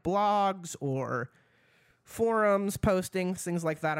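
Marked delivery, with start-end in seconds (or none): 2.0-4.0 short of breath from talking. Real, not acted. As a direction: talk while winded. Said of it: "I'm running out of breath".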